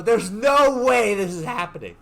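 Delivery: high-pitched mock panic; retold disbelief. His retold panic on hearing shark.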